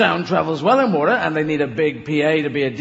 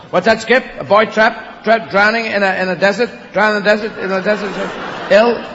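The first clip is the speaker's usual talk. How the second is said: mock urgent Skippy; 3 semitones higher, 3 dB louder than usual. Skippy's owner decoding the trouble, mock urgent. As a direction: rattle off the emergency, hammed-up. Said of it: "There was Skippy".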